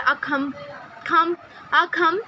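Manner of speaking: अखम slowly, with a strong aspirated kh; spelling it out. Shown as a demonstration. Teacher sounding out accompany piece by piece. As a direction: build अखम sound by sound, very slow. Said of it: "ख की आवाज़ निकली".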